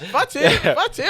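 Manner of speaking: laughing. Real, not acted. Correcting friend's height, teasing.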